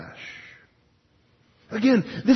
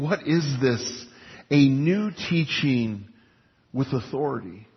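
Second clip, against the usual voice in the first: slow, softer, wondering; awed question; 4 semitones lower, 4 dB quieter than usual. Retold or imitated. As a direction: murmur it in amazement. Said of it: "they questioned themselves".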